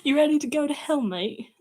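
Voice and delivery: high mock British accent; badly faked British threat; Sans. Shown as a demonstration. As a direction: ham up a British accent, half-joking. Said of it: "I can't do a British accent".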